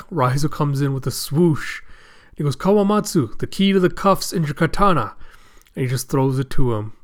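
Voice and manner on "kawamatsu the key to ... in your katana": higher-pitched acted call. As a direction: alert a comrade across the fight. Raizo calling to Kawamatsu.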